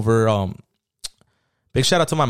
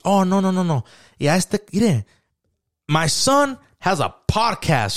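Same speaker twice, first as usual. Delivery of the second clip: higher, proud mom bragging to friends; proud mom imitation; 5 semitones higher, slower than usual. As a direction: show off your son like a proud mother. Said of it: "And then she was like".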